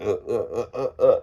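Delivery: short repeated effort grunts; a string of little "uh" grunts; imitated climbing grunts. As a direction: mimic huffing up a bank. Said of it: "act like I'm walking up the bank".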